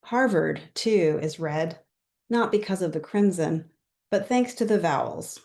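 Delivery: measured poem recital with pauses between lines; poetry reading. Real, not acted. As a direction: read your poem aloud, line by line. Poet reads own poem.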